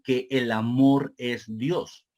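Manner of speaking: measured repeat, slowing toward the end; deliberate, slowing close; deliberate restatement. Real, not acted. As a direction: make the point carefully, stretching the final words. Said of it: "quiero que se entienda bien esta primera parte".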